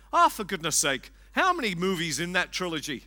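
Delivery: lightly imitated Irish accent, exasperated; a wife's Irish accent, gently mimicked. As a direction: quote her with a touch of Irish lilt. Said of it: "responded in her beautiful Irish accent".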